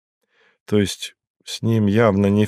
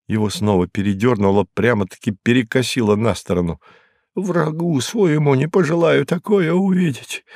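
higher, rising protest; higher, rattled Hinkus, getting agitated; 8 semitones higher than usual. Acted. Hinkus refusing the detective's questions, higher and agitated. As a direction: push back, getting worked up. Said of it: "Hinkus refusing, frightened".

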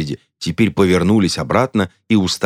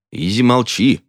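short barked order, pitched up; 6 semitones higher than usual. A narrator's reading. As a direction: bark at her to shut up. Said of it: "гаркнул Хоакин". (гаркнуть на жену)

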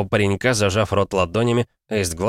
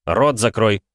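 angry; 3 semitones higher, 4 dB louder, slower than usual. Acted. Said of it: "гневно посмотрел на него".

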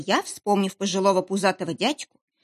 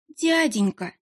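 a higher, pleading little voice, playing the fool; plaintive, trembling; 5 semitones higher, slower than usual. Pleading with the captor while playing dumb, plaintive and trembling. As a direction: whimper it like a helpless simpleton. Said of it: "проговорила я жалобным, дрожащим голосом".

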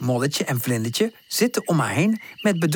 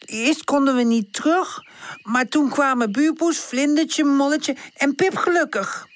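Woezel voice; 11 semitones higher than usual. Acted. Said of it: "begint Woezel".

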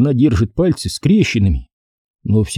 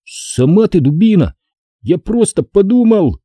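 put-on angry boy; 8 semitones higher than usual. A narrator's reading. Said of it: "Я рассердился".

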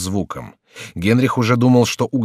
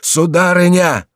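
very high, loud, drawn-out call; long alarmed cry; 10 semitones higher, 6 dB louder, slower than usual. A narrator's reading. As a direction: call at the top of the voice. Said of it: "вскричал Реми".

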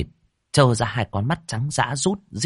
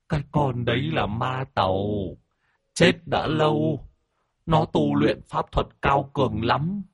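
high, whimpering account; snivelling; 6 semitones higher than usual. Acted. Old master warns them about the demon, snivelling. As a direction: explain it in a tearful high voice. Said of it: "Ông chủ thút thít".

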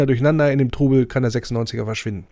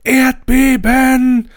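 long, much higher yelled warning; mock scream; 12 semitones higher, 5 dB louder, much slower than usual. Wolfsburg fan yells a fake alarm, high drawn-out scream. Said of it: "Und da schreit der Wolfsburger".

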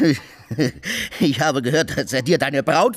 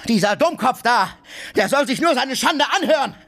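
mocking laughter; 14 semitones higher than usual. Drunk mocking Oblomov, laughing.

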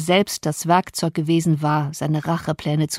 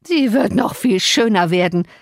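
mocking laugh; 3 dB louder than usual. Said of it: "lachte der verkommene Mann".

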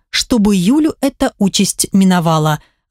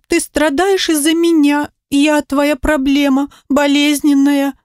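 put-on higher, small child pleading to her mother; higher child's voice, hurt and small; little girl's voice; 7 semitones higher than usual. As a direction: play a guilty little girl blaming herself. Little daughter Alisa speaking.

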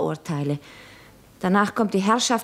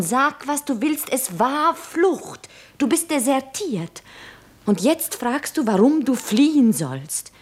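higher-pitched and urgent, pressing the point; insistent urging; 4 semitones higher than usual. Acted. Lara urgently insisting to Jura that he deserted. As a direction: drive it home to him.

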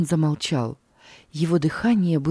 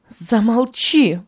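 higher, louder, slow; shouted command; 6 semitones higher, 5 dB louder, slower than usual. Acted. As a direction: bark it out to silence him. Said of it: "закричала Санна".

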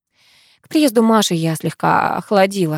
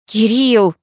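louder, urgent «Кирилл!» with a falling end; waking him; 4 semitones higher, 4 dB louder than usual. Acted. Karina wakes her sleeping friend, urgent raised call. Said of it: "растолкала я спящего друга".

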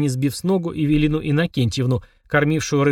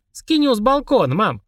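echoing the shout; 7 semitones higher than usual. Acted. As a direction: shout it up to the balcony. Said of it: "вторил Денис". (громко, вторя сестре)

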